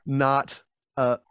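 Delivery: laughs through the words; giggly, half-laughing denial. Real, not acted. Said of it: "laughing through words".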